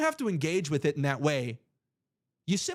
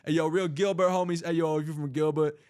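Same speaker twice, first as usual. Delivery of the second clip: a light street-slang hype voice; hype shoutout voice. Acted. Host hyping up Henderson and Gilbert chatters in slang. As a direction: hype up the homies in chat.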